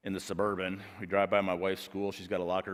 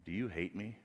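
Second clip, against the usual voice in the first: small voice; 8 dB quieter than usual. Retold or imitated. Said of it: "And the voice says this".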